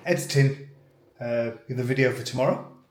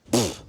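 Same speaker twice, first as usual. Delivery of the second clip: dismissive French pfft; 3 semitones lower than usual. Acted. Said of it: "French accent".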